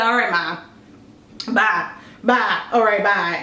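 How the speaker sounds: low, sleepy mumbled goodbyes; half asleep, just make her leave; drowsy brush-off. Retold or imitated. Groggy daughter waving mom off at six AM. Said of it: "And I don't care".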